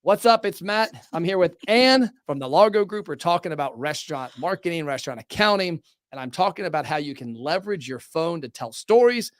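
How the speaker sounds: upbeat social-video host read; cheery live-stream intro. Shown as a demonstration. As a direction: sell it like a phone video opener. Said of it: "I'll turn around here and I'll say".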